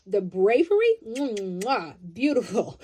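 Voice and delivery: shower them with praise, kiss and all; big excited admiration with a kiss sound; gushing praise. Real, not acted. Gushing praise for the brave ones.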